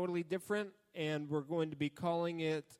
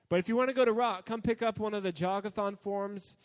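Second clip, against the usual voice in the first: excited; 5 semitones higher, 6 dB louder than usual. Real, not acted. Hyping the camp fundraiser.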